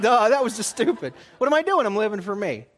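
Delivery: mock yourself for a dumb choice; self-mocking inner voice. Preacher voicing his own thoughts after refusing his wife, self-mocking. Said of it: "I'm like".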